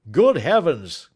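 the inspector astonished at the unmasking; cried out. A narrator's reading. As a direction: gasp it out in amazement. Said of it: "cried the inspector".

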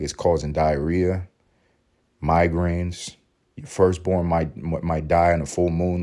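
slow, lightly voiced drug ad announcer; deep-voiced ad guy. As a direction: list side effects slowly, a hint of deep-voiced pitchman. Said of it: "The guy with the deep voice".

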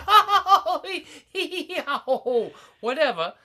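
laughing valley girl impression, airy and dismissive; ditzy valley girl brushing it off. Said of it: "That was the best Valley Girl impression".

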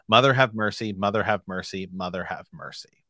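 chanted prayer fading to a hush. Acted. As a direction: repeat it, dying away each time.

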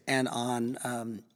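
ordinary talk, nothing marked

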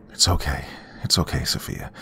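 calm her down gently; reassuring. Acted. Narrator comforting crying Sophia.

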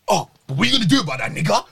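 rattled off fast, a quick mock taunt; quick, lightly mocked taunt from the girl. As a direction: fire the taunt off quickly, like she said it. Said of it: "And then she goes".

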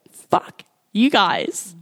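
slow, breathy whispered curse; muttered curse. Retold or imitated. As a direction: hiss it under your breath. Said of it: "I was just like".

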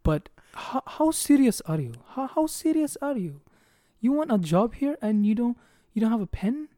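put-on high, loud Indian accent, scolding; mock the manager in an Indian accent. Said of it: "like, in an Indian accent".

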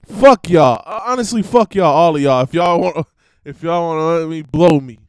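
shouted, loud line, punched on "fuck" and "blow"; loud first take of the lyric. Shown as a demonstration. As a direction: blurt the line out loud before checking it. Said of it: "Wait, how did Dre say it?".

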